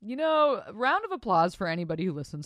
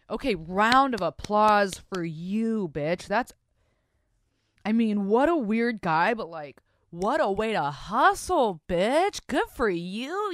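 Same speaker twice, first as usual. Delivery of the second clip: loud, high cheering; hyped cheer; 3 semitones higher, 6 dB louder, slower than usual. Real, not acted. Host cheering the bikini barista listener, excited. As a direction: hype up the listener.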